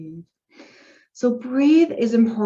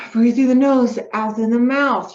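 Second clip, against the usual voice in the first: guided breathing cue; 2 semitones higher, 6 dB louder than usual. Shown as a demonstration. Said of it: "If you have really good breath support".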